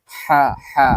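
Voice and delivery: হা said pressed from the middle of the throat. Shown as a demonstration. Teacher shows the pressed throat sound হা. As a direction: squeeze হা from mid-throat. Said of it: "এই হাটা একটু চাপা আসবে".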